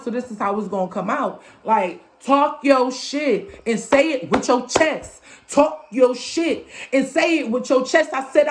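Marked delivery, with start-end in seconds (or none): 2.2-8.1 slow, word-by-word chant; emphatic mantra. Real, not acted. Urging listeners to speak boldly, as a slow emphatic mantra. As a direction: land each word separately, stretched out. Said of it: "this is how it's coming out".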